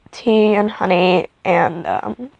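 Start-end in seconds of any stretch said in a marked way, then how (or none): 1.9-2.3 talking through a yawn; words stretched by a yawn. Real, not acted. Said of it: "I'm so sorry I'm yawning".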